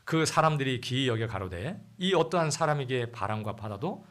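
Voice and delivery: loud, solemn Bible reading; scripture reading. Acted. Pastor reading the storm passage aloud, solemn and loud. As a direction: proclaim the verses to the congregation.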